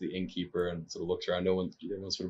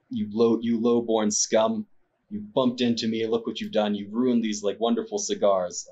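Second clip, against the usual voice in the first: berating yell; 2 semitones higher than usual. Acted. Nobleman yelling at the villager who bumped him, berating. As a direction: scold the villager like dirt beneath you. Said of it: "begins yelling at him and berating him".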